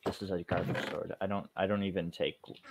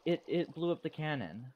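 dopey deep voice; 8 semitones higher, 5 dB louder than usual. Acted. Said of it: "Why does everyone I talk to sound so depressed?".

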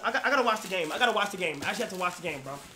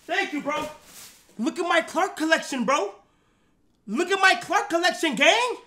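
hyped bragging to the camera about Clarks. Real, not acted. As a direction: show off your collection, all hype. Hyped showing off sneaker collection.

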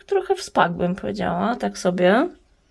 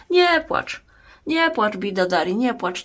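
mock comforting. Comforting a "crying" plant.

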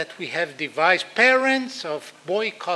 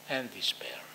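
dramatic whisper; 7 semitones lower, 7 dB quieter than usual. Shown as a demonstration. Dramatic lecture point, whispered.

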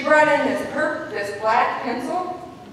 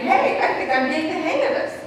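put-on kid's quote; 6 semitones higher than usual. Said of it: "another time he's saying".

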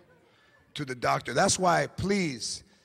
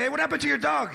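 higher-pitched questioning voice, lightly acted; nosy neighbors; 6 semitones higher, faster than usual. People asking after the dog, lightly voiced curious neighbors. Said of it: "then people would say".

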